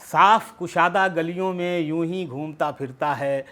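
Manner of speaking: measured narrative verse; poetry recitation. Acted. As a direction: recite the story-poem in shaped phrases.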